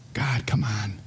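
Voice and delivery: low, near-whispered appeal; hushed, weary-sounding protest; exasperated plea. Acted. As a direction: beg God under your breath. Acted exasperated appeal to God.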